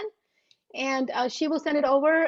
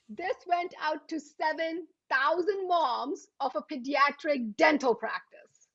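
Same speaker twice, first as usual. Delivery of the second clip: usual speaking voice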